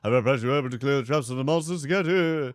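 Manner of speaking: grand knightly announcement; put-on knight voice. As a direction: proclaim it as a knight, drawing out key words. Voices game character's dialogue.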